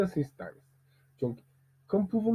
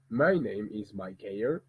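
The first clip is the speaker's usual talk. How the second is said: English-language voice, lower and slower; 5 semitones lower, slower than usual. Shown as a demonstration. Teacher showing how his voice changes by language, English. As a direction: introduce yourself in slow, low English. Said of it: "notre voix sont complètement différentes".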